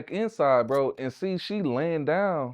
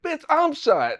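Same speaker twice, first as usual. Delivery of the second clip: high, louder yell of disbelief; exasperated yell; 4 dB louder, slower than usual. Retold or imitated. Shot man yells back at police, exasperated. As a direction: shout it, fed up and hurt. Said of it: "I was like".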